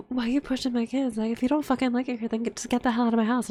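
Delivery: rapid, mildly heated scolding; pissed-off dad. Retold or imitated. Voicing dad on the phone about his kids, pissed off. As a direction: rattle off a retold telling-off. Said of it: "he's so pissed off".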